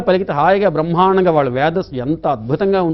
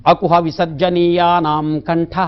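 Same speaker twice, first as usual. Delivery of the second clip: slow sutra recitation; slower than usual. Shown as a demonstration. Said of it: "కంఠంలో పుట్టబడిన అక్షరాలు".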